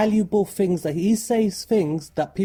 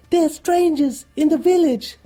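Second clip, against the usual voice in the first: high, loud excited announcement; loud excited cry of news; breathless news; 12 semitones higher, 7 dB louder than usual. Retold or imitated. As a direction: burst in with big news. Ewan runs in with the news.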